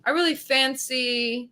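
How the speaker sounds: slow, careful mock British; tentative British impression; British accent. Shown as a demonstration. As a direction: draw out the words in put-on British. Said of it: "what's some other words they say".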